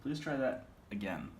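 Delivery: "again" set apart at the end; stress on "again". Shown as a demonstration. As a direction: lean on the last word, "again". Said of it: "different inflection on the words".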